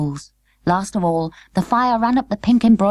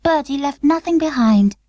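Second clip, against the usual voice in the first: sadly; 7 semitones higher than usual. Acted. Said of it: "said Charlotte sadly".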